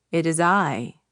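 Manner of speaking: low, ominous voice. Acted. Witch answers from outside the door, low and ominous. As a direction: drop the pitch, menacing. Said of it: "came a low voice".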